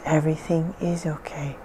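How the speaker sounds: soft voiceless whisper; whispered reassurance. Acted. Hypnotist reassuring the relaxed client, whispered. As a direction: breathe the words out without voice.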